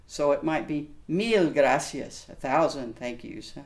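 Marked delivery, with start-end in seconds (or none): 1.1-2.3 Mil gracias, slow and emphatic, mil stressed; emphatic thanks. Shown as a demonstration. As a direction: say it with a slow fervent push on mil. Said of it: "we get a little more excited".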